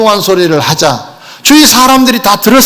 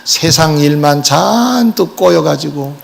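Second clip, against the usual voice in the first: soft, lowered scoff of mock pity; mock pitying sneer; 5 semitones lower, 4 dB quieter than usual. Mocking Jesus as a pitiful brother, soft scoffing sigh. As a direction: sigh it out like looking down on him. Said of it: "자칫 잘못하면 비웃을 수 있겠지".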